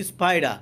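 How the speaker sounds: স্পাইডার ending in "-da", R dropped; silent final R. Shown as a demonstration. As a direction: say স্পাইডার with a plain P and no R. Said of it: "তাহলে আর এর উচ্চারণ হবে না".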